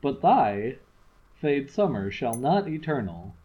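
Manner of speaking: measured recitation of a sonnet; poem reading. Acted. Reading a Shakespeare sonnet to a friend, measured recitation. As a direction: read the sonnet out with care.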